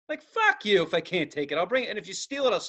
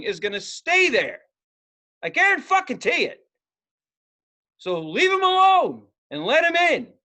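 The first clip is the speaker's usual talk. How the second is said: heated argument; 3 dB louder than usual. Retold or imitated. Arguing with security guard.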